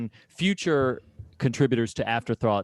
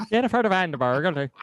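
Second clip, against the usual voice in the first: laughing mock voice; 6 semitones higher than usual. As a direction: laugh the name out mockingly. Mocking the name while laughing.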